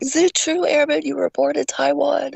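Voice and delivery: drill instructor voice. Retold or imitated. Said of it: "he's like".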